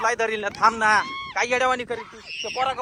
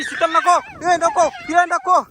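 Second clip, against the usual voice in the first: higher, raised voice of alarm; urgent warning shout; 6 semitones higher, slower than usual. Acted. Man warns his wife away from the ghost, urgent shout. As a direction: call out sharply to stop her.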